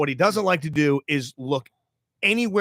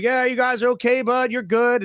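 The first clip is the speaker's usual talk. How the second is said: reassuring; 8 semitones higher than usual. Retold or imitated. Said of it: "rolling down the window like".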